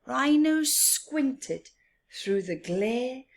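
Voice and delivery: high, slow and drawn out; high slow squinty read; squinting demo. Shown as a demonstration. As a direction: stretch it high to show squinting. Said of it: "This is squinting".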